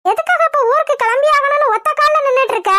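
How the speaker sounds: high-pitched, exasperated telling-off; exasperated scolding. Acted. Acted quarrel, scolding Jothi.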